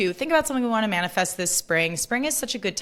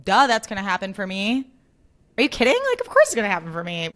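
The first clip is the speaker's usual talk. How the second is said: mock duh attitude; faster than usual. Shown as a demonstration. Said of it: "as if it's like".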